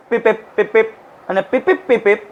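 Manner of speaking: little spoken "peep, peep" signal; repeated short electronic-style pips; imitated warning beeps. Shown as a demonstration. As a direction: mimic an alarm's short beeps. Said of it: "jamming of caution signals".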